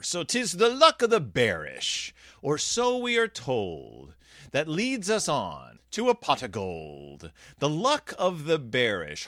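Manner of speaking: slow, lilting Irish storyteller; Irish accent. Acted. Podcaster reading a bear story aloud, Irish accent. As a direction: read it in a drawn-out Irish accent. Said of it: "my Irish accent".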